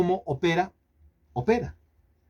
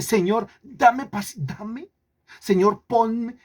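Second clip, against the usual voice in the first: high, pleading mock prayer; 6 semitones higher, slower than usual. Preacher mimics a believer praying for patience, high pleading. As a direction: beg God like an impatient child. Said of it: "Y dice".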